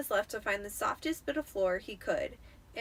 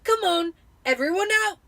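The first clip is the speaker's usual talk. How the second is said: loud, higher barked order; Uncle Vernon ordering; 9 semitones higher, 12 dB louder than usual. A narrator's reading. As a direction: herd the family out of the car. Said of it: "he said".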